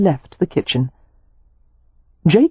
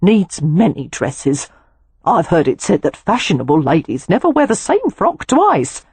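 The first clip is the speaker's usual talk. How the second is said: wise housekeeper. Acted. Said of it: "Missus Pennywhistle said wisely".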